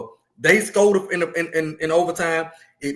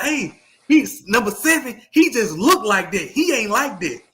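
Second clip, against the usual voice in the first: sideline call; 6 semitones higher, 4 dB louder, slower than usual. Retold or imitated. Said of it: "I scream out".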